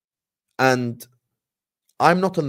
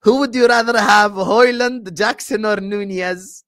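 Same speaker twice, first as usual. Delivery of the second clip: retold question; 7 semitones higher, 6 dB louder, slower than usual. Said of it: "I was asked".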